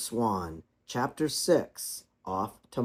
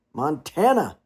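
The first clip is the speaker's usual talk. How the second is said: solemn father swan, raised and a bit louder; the cob speaking firmly to his children; 4 semitones higher, 7 dB louder than usual. A narrator's reading.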